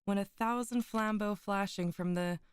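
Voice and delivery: put-on measured, solemn reading of an old tale; story narration. Streamer reading Poe's tale to her chat, in a solemn narrating voice. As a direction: read it like a gothic storyteller. Reads Poe aloud to stream.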